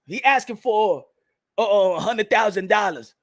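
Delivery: low, halting reply; name the figure reluctantly; hesitant answer. Acted. Acts candidate hesitantly stating his figure.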